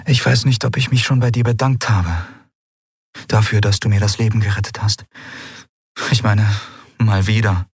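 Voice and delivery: lightly voiced heroine, hesitant; young woman's voice. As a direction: thank him, a little shy. Andriel thanks Keru.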